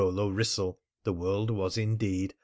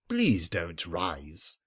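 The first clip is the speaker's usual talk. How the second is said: languid entreaty; 4 semitones lower, much slower than usual. Acted. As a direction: gently beg him to stay seated, unhurried. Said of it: "Mister Wrissell entreated".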